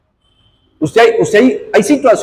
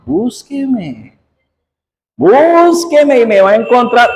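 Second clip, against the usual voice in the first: mom's warning; 3 semitones higher, slower than usual. Retold or imitated. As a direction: imitate mom threatening her stubborn kid. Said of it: "¿qué me empezaba a hacer mi mamá?". (imitando a la mamá que advierte al hijo necio)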